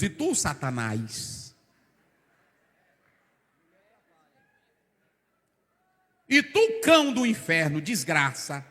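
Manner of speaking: rebuking Satan. Acted. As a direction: cast the devil out.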